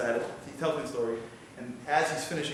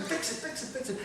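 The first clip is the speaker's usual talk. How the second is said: retold scream; 12 semitones higher, 3 dB quieter than usual. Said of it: "He's screaming".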